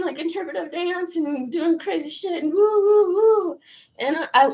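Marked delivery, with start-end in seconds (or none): 2.5-3.6 high, loud party whoops; cheering herself on while dancing; excited whoops. Real, not acted. Showing off her dancing.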